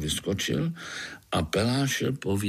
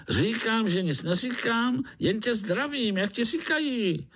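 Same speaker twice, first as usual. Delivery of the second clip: high, quick grinning mosquito; jolly mosquito grinning at a spider; 14 semitones higher than usual. Acted. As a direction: tease the little spider, fast and high.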